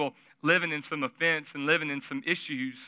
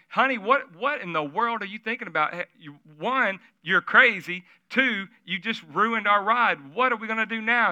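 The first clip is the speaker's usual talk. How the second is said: panicked husband; 5 semitones higher than usual. Retold or imitated. Husband panicking at his wife after the shot. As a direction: voice the husband freaking out.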